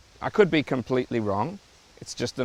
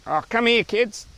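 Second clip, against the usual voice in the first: put-on higher, nasal Aussie parent calling the kids; 8 semitones higher than usual. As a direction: call the kids in a broad nasal Australian twang. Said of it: "And it's fairly nasal".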